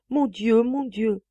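high, loud wailing lament; moaning. Acted. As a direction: moan it in despair. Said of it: "madame gémit". (gémissement de madame)

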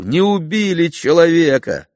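high, loud cry of relief; joyful shout. A narrator's reading. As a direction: shout it with overflowing joy. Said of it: "кричу".

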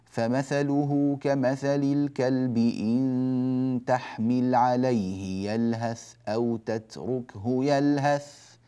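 slow, chanted tajweed reading; slow melodic Quranic recitation. Shown as a demonstration. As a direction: recite the verse with long, held vowels. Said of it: "فنقول".

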